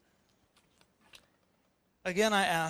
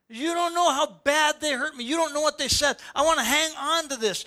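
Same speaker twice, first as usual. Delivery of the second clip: higher, aggrieved, clinging to the hurt; mock wounded voice; 6 semitones higher than usual. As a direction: play someone nursing an old wound. Voicing a hurt, bitter person.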